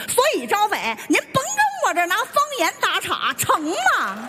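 pointed Beijing-accented scolding; Beijing dialect. Shown as a demonstration. Mother telling her child to stop dodging, in Beijing dialect. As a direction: show off a genuine Beijing accent. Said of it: "说北京话也刚地道".

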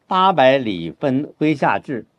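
slow, spaced reading; slow model line; slow demo phrasing. Shown as a demonstration. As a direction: spell out the phrasing slowly. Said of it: "有些人呢就不太理解意思啊".

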